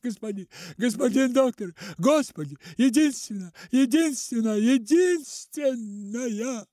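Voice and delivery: a frantic father gasping out his words; choking, panicked plea. A narrator's reading. Father begs the doctor, choking and frantic. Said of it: "захлёбываясь, стал бормотать".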